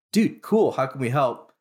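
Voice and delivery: jumps up high and loud on dude cool, then settles; an eager yes to a pitch you love; a founder eagerly signing on to the vet's idea, excited; excited agreement. Retold or imitated. Founder John enthusiastically agrees.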